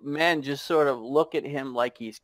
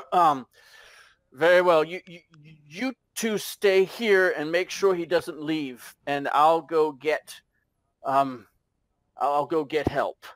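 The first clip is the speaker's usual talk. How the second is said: put-on halting, throat-clearing young officer; flustered; 3 semitones higher than usual. Young sergeant saving face before his men, mildly flustered. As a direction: stumble through it, trying to sound in charge. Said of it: "this young man looks very flustered".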